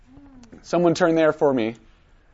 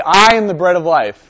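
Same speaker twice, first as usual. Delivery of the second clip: firm, louder declaration; with conviction; 6 dB louder than usual. Shown as a demonstration. Coaching a reader to make eye contact, with conviction. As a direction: say it straight to them, not read. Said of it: "you gotta say".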